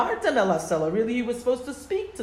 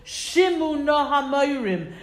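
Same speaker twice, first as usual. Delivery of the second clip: stern rebuke; 5 semitones higher, 4 dB louder than usual. Retold or imitated. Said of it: "Moshe says to the people".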